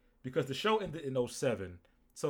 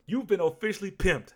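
show host catchphrase; 8 semitones higher, 8 dB louder than usual. Retold or imitated. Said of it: "that's what he says".

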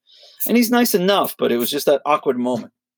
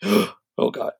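mock shock; 8 semitones higher than usual.

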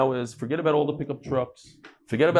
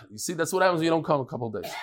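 laughing tease; much faster than usual. Real, not acted. Teasing late students, laughing.

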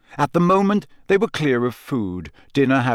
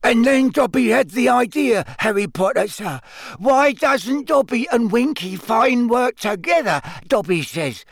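shrill, high elf voice, raised; Dobby; 10 semitones higher than usual. A narrator's reading. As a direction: shout the story shrilly over the noise. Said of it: "shouting shrilly over Winky's screeches".

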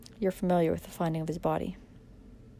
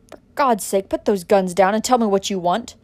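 loud pleading; 7 dB louder than usual. Acted. Villain pleads at gunpoint.

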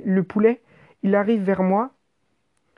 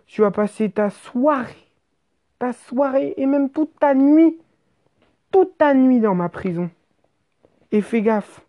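lightly voiced menacing cop, slightly raised pitch; threatening policeman; 4 semitones higher than usual. Policeman threatening the injured rider with a night in prison, lightly acted menace. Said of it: "il me dit comme ça, me regardant droit dans les yeux".

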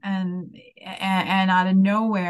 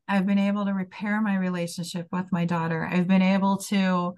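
holding back tears; teary. Real, not acted. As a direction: voice thick with tears. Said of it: "sorry, I'm getting a little teary".

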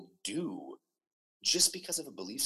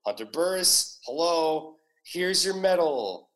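slightly raised, drawn-out ceremonial announcement; medal presenter; 4 semitones higher, 4 dB louder, slower than usual. Acted. Imagined visitor handing over a medal at the door, lightly announcing. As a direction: announce the award slowly, a hint of presenter. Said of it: "I want someone to come to me".

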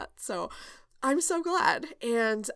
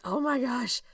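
fast, higher, rushed mock panic; half-joking overwhelmed rush; panicked inner voice; 7 semitones higher, 4 dB louder, faster than usual. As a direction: replay the frantic thought, hurried and pitched up. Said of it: "there are some weeks where I'm just like".

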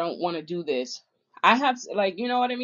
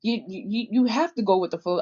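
mocking other people; 4 semitones higher than usual. Venting about people who tell her to go with the flow, mocking them. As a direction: throw their nagging question back at them, mockingly. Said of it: "They like".

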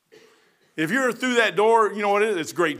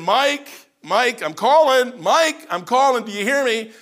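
raised, drawn-out calling voice of God; 4 semitones higher, 4 dB louder, slower than usual. Retold or imitated. God calling Mike to wake him up, raised and slow. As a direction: call out to him slowly across the distance.

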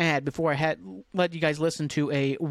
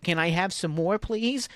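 meek orphan beggar; slower than usual. Pretend. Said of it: "like Oliver Twist".

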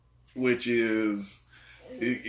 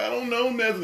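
high-pitched pleading retold in play; mock panicked crook; 12 semitones higher than usual. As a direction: imitate a crook crying out, pitched way up. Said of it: "the guy's like".

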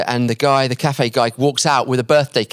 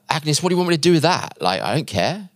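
quick dismissive retort, pitched up then dropping; mock a friend who couldn't care less; 3 semitones higher than usual. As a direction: brush it off briskly. Friend brushes off her birthday news.

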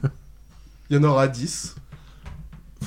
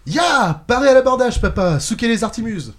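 loud, high pirate shouting; bad acting; 8 semitones higher, 8 dB louder than usual. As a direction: bellow it like a hammy pirate. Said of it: "je joue mal".

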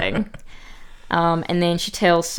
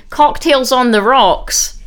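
put-on higher, slow, bratty kid voice; 5 semitones higher, 5 dB louder, slower than usual. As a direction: lightly play a smug little girl. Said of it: "the youngest ones saying".

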